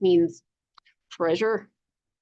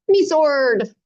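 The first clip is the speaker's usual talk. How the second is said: louder pirate cry for his sword; startled yelp; 3 semitones higher, 6 dB louder than usual. Acted. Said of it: "he yelped".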